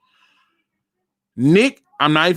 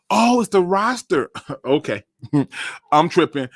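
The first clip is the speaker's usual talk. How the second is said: self-mocking laugh. Real, not acted. Laughs at himself.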